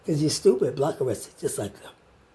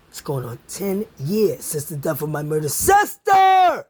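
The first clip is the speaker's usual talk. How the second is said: slow, raised shout; 2 semitones lower, 4 dB louder than usual. Real, not acted. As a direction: yell it out, deliberate and angry. Angry rant about sister's death.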